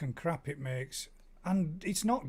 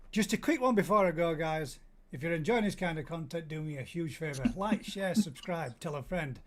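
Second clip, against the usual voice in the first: vlogger sign-off. Shown as a demonstration. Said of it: "the actual ending goes, um, goes like this".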